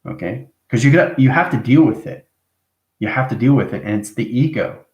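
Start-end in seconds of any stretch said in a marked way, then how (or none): 0.7-2.3 pushed up higher and louder to drive it home; emphatic, louder. Real, not acted. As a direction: insist on it firmly. Repeats the advice with emphasis.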